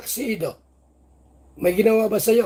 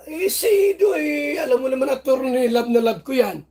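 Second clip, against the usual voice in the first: mock lovesick whine; 3 semitones higher than usual. Vlogger playing a singer confessing love to the attorney, mock whimper. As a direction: gush like a lovestruck girl, half crying. A singer gushing over Ido.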